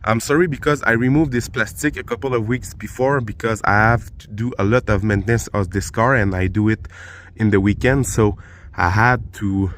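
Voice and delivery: talking while lying on your back; strained voice from under a car. Real, not acted. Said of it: "now I'm under the car".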